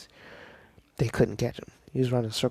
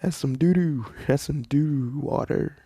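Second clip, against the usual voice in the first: higher, louder, grossed out; disgusted shock; 5 semitones higher, 5 dB louder than usual. Retold or imitated. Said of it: "And Deku's like".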